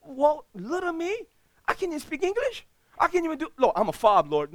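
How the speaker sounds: high, small, frightened voice; scared. Retold or imitated. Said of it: "I was scared".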